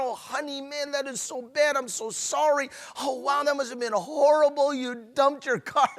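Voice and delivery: soft, sympathetic "oh honey" coaxing; comforting husband. Pretend. Husband consoling his upset wife, softly sympathetic. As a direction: soothe her like a caring husband.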